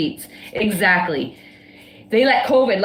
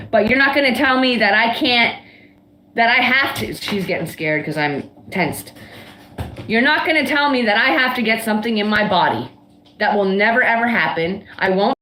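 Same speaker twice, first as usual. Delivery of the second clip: heated, insistent refusal; getting mad. Real, not acted. Refusing a mandatory injection, angrily insisting to viewers. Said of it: "I'm getting mad".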